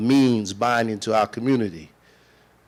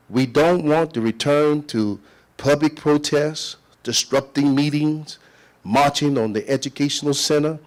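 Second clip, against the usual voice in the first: rally speech; 3 semitones higher than usual. Real, not acted. Warning board of protests.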